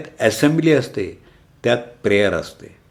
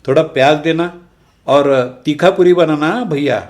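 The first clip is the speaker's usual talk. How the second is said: louder, higher, casual Hindi street-food order; imitating a Marathi person ordering pani puri in Hindi, louder and higher; Hindi-speaking customer; 4 semitones higher, 5 dB louder than usual. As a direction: put on a pushy customer asking the pani puri man in Hindi. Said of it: "असं म्हणतात".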